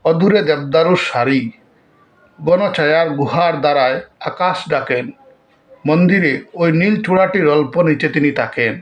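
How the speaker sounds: measured recital with long pauses between lines; poem recitation. Acted. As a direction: recite verse line by line, deliberately. (ধীরে, থেমে থেমে কবিতা আবৃত্তি)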